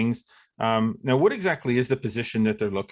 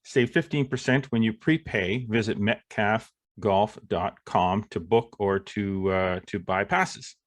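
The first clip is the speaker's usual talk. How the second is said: sponsor read. Acted.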